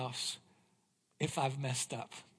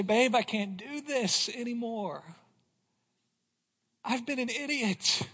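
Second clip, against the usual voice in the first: a touch of a contrite husband apologizing; humbled husband; 3 semitones higher than usual. Retold or imitated. Husband apologizing to his wife, contrite. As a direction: own up gently to his wife. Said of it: "Till I say".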